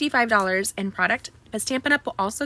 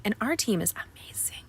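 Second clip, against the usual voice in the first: whisper; 7 dB quieter than usual. Real, not acted. Aside praising her team.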